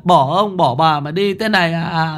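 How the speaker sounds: high, wailing lament of a grieving grandmother; keen and wail for the drowned grandson; despairing wail. A narrator's reading. Grandmother wails for her drowned grandson, high despairing keening. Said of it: "Bà gào lên trong tuyệt vọng".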